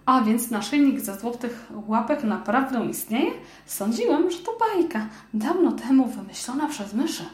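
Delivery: a tiny mouse who can't believe it's real; little mouse voice. Acted.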